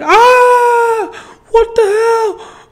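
high, loud cry of shock; startled shout. Retold or imitated. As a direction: yell it out in sudden panic. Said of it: "I was like".

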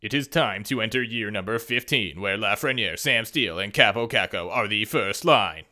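lightly dramatic trailer narrator; movie trailer voice. Pretend. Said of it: "does that sound like a movie trailer?".

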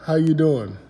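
playful fake Jamaican accent. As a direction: greet them in a mock Jamaican accent. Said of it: "I got the fake Jamaican accent".

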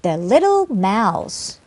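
slow, deliberate "The little mouse"; careful teacher's demonstration; chunked model reading. Shown as a demonstration. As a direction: read the phrase slowly as one unit. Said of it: "이렇게 하나 단위로 끊어서".

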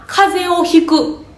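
slow, deliberate example phrase; slow model phrase. Shown as a demonstration. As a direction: spell out each word of the collocation slowly. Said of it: "日本語で言うんやったら".

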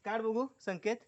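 high, loud coaxing; urging call. Real, not acted. Uncle loudly coaxes shy Sanket again. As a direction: egg him on loudly.

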